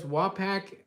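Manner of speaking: "Wapak" with a short a in pak; own pronunciation. Shown as a demonstration. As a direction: say "Wapak", second syllable like pack. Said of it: "this is the way I pronounce it".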